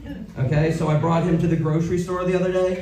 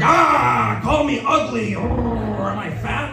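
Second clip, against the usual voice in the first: higher, pleading mock whine, trailing off slower; mock needy voice; 6 semitones higher, slower than usual. Comic begging the crowd to insult her, in a high mock whine. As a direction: fish for an insult in a whiny put-on voice.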